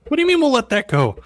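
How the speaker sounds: high, loud disbelief; incredulous. Real, not acted. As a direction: throw it back in disbelief. Incredulous reply.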